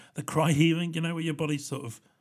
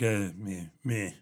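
put-on stroppy teenager; 4 semitones lower, slower than usual. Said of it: "every question is answered with like".

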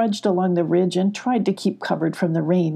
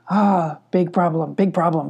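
worried goat. A narrator's reading. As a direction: fret over a big problem. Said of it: "said the goat".

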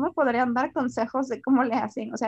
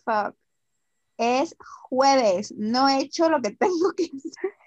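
louder, alarmed realization; sudden panic; 3 semitones higher, 5 dB louder than usual. Retold or imitated. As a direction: blurt it out in a panic.

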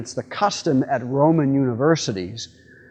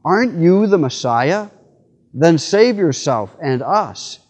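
mocking taunt; 4 semitones higher, 6 dB louder, slower than usual. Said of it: "blasphemed him".

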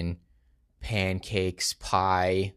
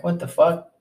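shocked outburst; 10 semitones higher, 6 dB louder than usual. Retold or imitated. Shocked at the boss's text.

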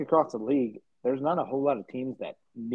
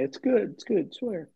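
lightly voiced pleading friend, pitched up; a touch of high insistent coaxing; imitating Bruce; 8 semitones higher than usual.

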